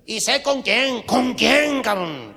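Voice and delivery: loud, high, urgent demand. Acted. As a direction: demand the name, shouting. Urgent demand who the lover is. (exigencia a gritos, aguda)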